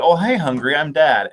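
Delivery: milk the corny joke; cheesy dad joke. Retold or imitated. Dad teasing his hungry kids with a dad joke, hammy. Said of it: "I would go".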